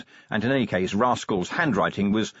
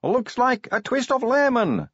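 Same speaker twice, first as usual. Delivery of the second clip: damp voice; 14 semitones higher, slower than usual. A narrator's reading. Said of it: "said a damp voice".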